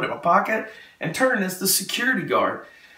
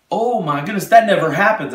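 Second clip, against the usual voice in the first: mildly raised, astonished reaction; retold amazement; 4 semitones higher, 6 dB louder than usual. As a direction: act out amazed disbelief, louder at the end. Driver amazed at his story.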